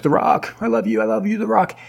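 high, wailing mock sob of love; mock crying. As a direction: cry it out way up high, hammed-up. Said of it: "Lily's, like, crying".

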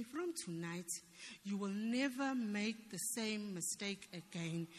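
soft, slow imitation of a whisper; retold whisper. Rev praying into her ear, retold as a soft whisper. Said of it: "he was whispering it into my ear".

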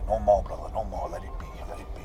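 put-on quietly recalled South African accent, lightly done. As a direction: retell the film line in a hint of a South African accent. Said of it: "in this South African accent".

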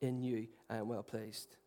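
put-on God's whisper to his child; tender Father's voice. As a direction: speak it like a loving father. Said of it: "the voice of the Father saying".

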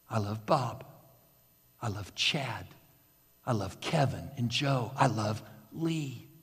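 soft, low, near-whispered names, one by one; hushed name list. Acted. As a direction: let each name fall quietly, intimate. Names read softly on a banner.

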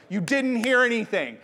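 mock-stern parent sending a kid back to bed; frustrated parent. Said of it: "Eli, like, getting frustrated".

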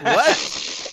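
baffled breathy what; surprised. Retold or imitated. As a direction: caught off guard, incredulous. Baffled reaction to Kat's remark.

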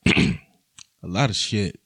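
low smooth playboy voice. Pretend. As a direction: drop low into a ladies' man voice. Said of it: "I had to go into my Playboy voice".

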